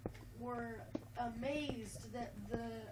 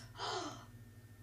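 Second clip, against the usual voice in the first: shocked gasp; 2 semitones higher, 6 dB quieter than usual. Acted. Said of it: "And the teacher goes".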